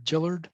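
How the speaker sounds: "Gillard" with a J sound at the start; "Gillard" pronounced with soft G, rhyming its end with her. Shown as a demonstration. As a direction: say "Gillard" as one word, JILL-erd. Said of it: "soft G".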